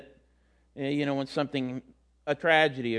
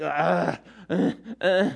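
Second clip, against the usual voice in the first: imitated panting; slower than usual. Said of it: "that's what panting is".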